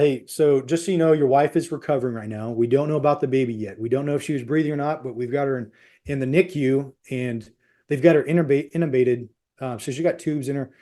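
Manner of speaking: gentle, measured doctor relaying news; good bedside manner. Retold or imitated. Doctor updates an anxious husband on his wife, calmly. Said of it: "he had good bedside manner".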